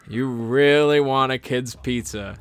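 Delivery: ominous repeat. Retold or imitated. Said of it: "More ominous words have never been spoken".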